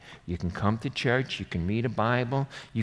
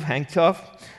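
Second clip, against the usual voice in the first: louder, higher hang tough; shouted command; 4 semitones higher, 5 dB louder than usual. Real, not acted. Preacher commanding the congregation, loud rising shout. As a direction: bark it like an order. Shouted in the battle-cry run.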